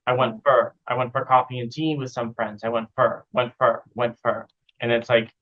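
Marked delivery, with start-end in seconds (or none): 0.1-0.7 "fur" said for "for", reduced; went-fur run together; a quick unstressed "fur"; weak "fur". Shown as a demonstration. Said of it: "the for sound always becomes a fur sound". 2.6-4.5 "fur" said for "for", reduced; went-fur run together; a quick unstressed "fur"; weak "fur". Shown as a demonstration. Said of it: "becomes a fur sound".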